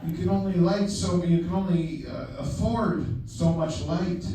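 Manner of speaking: put-on light Dutch accent, slowing at the end; a hint of a Dutch cinematographer's accent. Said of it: "I'm just gonna be doing his, uh, Dutch accent all night".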